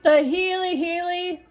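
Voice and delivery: surprised recognition. Real, not acted. Player catching a familiar company name, surprised.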